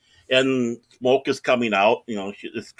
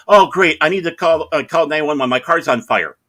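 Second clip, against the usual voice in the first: raised, urgent imitation of a customer; frantic; 5 semitones higher, 6 dB louder than usual. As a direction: blurt out the emergency as a frantic customer. Lady reporting car fire, acted.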